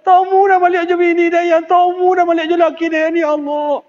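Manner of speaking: high, loud, wailing plea to God; wailing prayer. Acted. Adam and Hawa begging Allah for forgiveness, high wailing cry. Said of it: "meraung-raung menangi".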